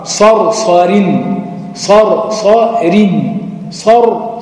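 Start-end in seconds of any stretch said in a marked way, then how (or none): 0.0-1.4 صر heavy then صارين, said slowly; slow contrast demo. Shown as a demonstration. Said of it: "مرققة". 2.3-3.4 صارين said slowly, ر held; slow demo. Shown as a demonstration. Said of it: "مرققة".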